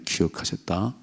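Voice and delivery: soft echo. Shown as a demonstration. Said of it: "이 말은 다른 말로 하면".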